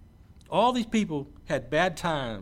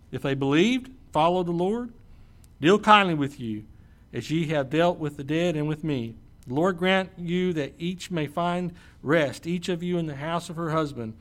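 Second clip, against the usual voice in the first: steady, measured Bible reading; scripture reading; 4 dB louder than usual. Acted. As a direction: read the passage aloud to the church. Reads scripture aloud.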